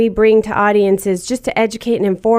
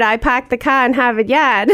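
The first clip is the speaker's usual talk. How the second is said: Boston accent; 2 semitones higher than usual. Shown as a demonstration. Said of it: "I've lost a bit of my accent".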